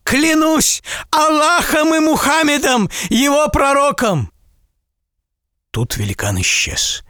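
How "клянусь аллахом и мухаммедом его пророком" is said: high, fervent vow; merchant's solemn oath. A narrator's reading. Merchant swearing to the giant by Allah, fervent high vow. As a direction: swear it with all your heart.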